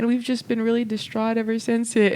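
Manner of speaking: high, slow, pleading mock-tearful voice; a hammed-up distraught stranger asking for help; imitating grieving couple. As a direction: plead slowly and high like a heartbroken parent. Grieving couple asks for spray.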